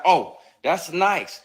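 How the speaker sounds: high, slow teasing put-on; imitating the actress, high and slow; mock coy coworker. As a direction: drawl it out like a smug flirt. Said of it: "be like".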